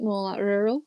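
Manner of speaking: RURAL said in a Lancashire accent; broad Lancashire pronunciation of "rural". Shown as a demonstration. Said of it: "if I put on my Lancashire accent".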